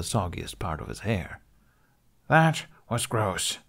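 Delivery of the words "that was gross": slow disgusted grumble; grumbling. Acted. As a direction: drag it out, grossed out. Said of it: "Hiccup grumbled".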